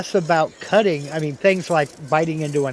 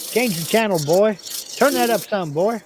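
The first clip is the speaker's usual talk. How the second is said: bossy dad; 6 semitones higher than usual. Retold or imitated. Dad voiced giving orders.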